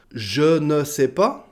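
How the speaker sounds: slow "je ne sais pas", every word separate; full formal form. Shown as a demonstration. Teacher showing what is not said, slow full "je ne sais pas". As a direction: stretch "je ne sais pas" with ne kept. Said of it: "Donc on ne dit pas".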